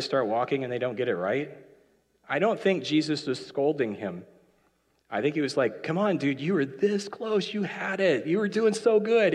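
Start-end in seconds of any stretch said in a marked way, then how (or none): 5.8-9.3 higher-pitched friendly cheering on; encouraging. Acted. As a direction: coach a friend who nearly made it. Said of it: "It was an encouraging kind of like".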